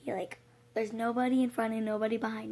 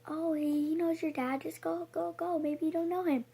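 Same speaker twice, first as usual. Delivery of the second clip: higher, coaxing staff voice; lightly voiced office staff urging go go go; mock school staff; 6 semitones higher than usual. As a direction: shoo her along, light and dismissive. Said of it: "they tell me".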